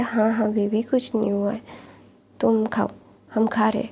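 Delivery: put-on calm the boy down gently; whispery mother comfort; soothing.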